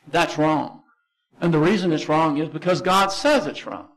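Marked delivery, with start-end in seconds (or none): 0.1-0.8 calm. Shown as a demonstration. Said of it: "you can very calmly say".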